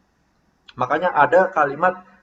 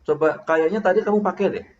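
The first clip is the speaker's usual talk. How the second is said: a tentative, suggesting reminder; just remind, without blaming; softened suggestion, falling at the end; gentle reminder; 4 semitones higher, 3 dB louder than usual. Shown as a demonstration. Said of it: "Mengingatkan itu".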